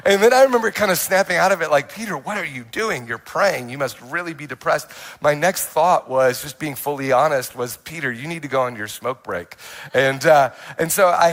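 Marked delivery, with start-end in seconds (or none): 1.9-4.9 softer, muttered self-talk to yourself; quiet inner voice. Retold or imitated. To himself mid-prayer, a quiet inner scold. 7.8-9.6 softer, wry note to self; quiet inner voice. Retold or imitated. To himself in the nightclub, a quiet wry aside. Inner thought after prayer.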